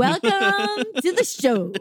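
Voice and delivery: slow, drawn-out announcer welcome. Pretend. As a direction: boom it out like a ring announcer. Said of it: "I wanted my turn".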